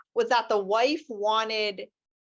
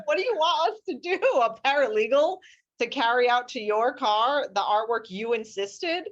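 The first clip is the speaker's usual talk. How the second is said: mock indignation; 2 semitones higher than usual. Lawyer to opposing client wanting help carrying art, mock indignation. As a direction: push back at an absurd demand.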